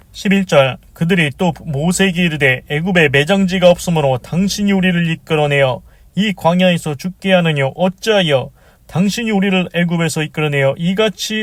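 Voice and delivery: formal Bible verse read aloud; reciting scripture to a congregation. Acted. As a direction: read out the verse steadily, drawing out the final words.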